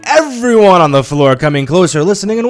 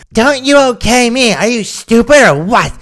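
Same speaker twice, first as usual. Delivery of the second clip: high-pitched, offended scolding; indignant rebuke; 8 semitones higher than usual. A narrator's reading. Customer tells off a supposed sales girl, indignant. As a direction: throw it back at them, much higher. Rude customer snaps at narrator.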